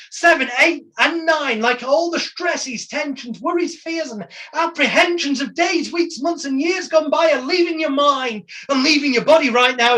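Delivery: rising wake-up count. Shown as a demonstration. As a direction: count them up to wide awake, building. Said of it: "my voice tone will get louder as we go up".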